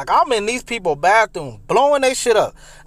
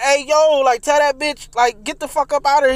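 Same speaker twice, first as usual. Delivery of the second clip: yelling; 5 semitones higher than usual. Retold or imitated. Calling friend to remove girl.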